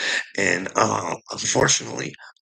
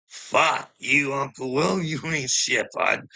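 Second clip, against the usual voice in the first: angry callout; 6 semitones higher than usual. Real, not acted. Calling out Uncle Will.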